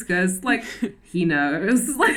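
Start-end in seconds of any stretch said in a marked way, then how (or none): 1.0-1.9 lightly voiced grumpy old man; a hint of a crotchety old man. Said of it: "in the most crotchety old man voice".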